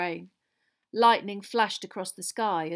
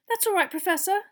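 high, strained gasp; gasped reply; 11 semitones higher, 5 dB louder than usual. Acted. Girl reassuring teacher who grabbed her neck, gasping. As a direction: squeeze the words out after being throttled. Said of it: "Hermione gasped".

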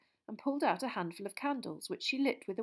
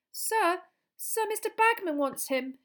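put-on high, eager, nervous boy's voice; a young boy blurting it out anxiously, pitched high; nervous Colin; 12 semitones higher, 6 dB louder, slower than usual. Boy nervously interrupting the potions teacher, high and eager. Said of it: "he said nervously".

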